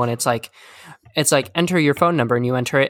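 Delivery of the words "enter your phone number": robot phone voice. Retold or imitated. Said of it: "automated systems that you call".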